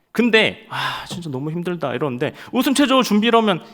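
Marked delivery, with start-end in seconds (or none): 0.7-1.9 much softer, worn-out groan; a tired soldier sighing; weary sigh. Retold or imitated. 2.5-3.3 much higher officer's order; mock officer's call; drill command.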